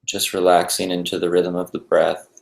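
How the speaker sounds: calm, even meditation guide with long pauses; unhurried, settled guided-meditation voice. Acted. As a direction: ease listeners into stillness, leaving space between phrases.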